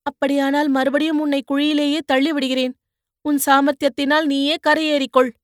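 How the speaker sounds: put-on young woman needling the man she pulled from the mud; teasing young woman. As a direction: poke fun at his cries like a sharp-tongued girl. Poonguzhali threatens to push him.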